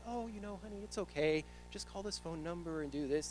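put-on high, soft, reassuring old lady; imitated sweet phone-line granny; sweet little old lady. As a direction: soothe the caller like a kindly old lady. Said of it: "This sweet little old lady".

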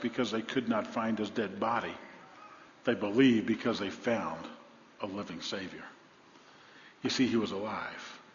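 soft, low fading delivery; quiet conviction; whispered faith; hushed reverence. Real, not acted. Hushed closing reflection.

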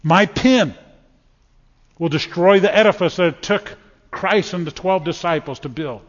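mock the skeptic's swagger; arrogant boast. Preacher mocking Voltaire's journal, a puffed-up arrogant boast. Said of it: "Pretty arrogant, isn't it?".

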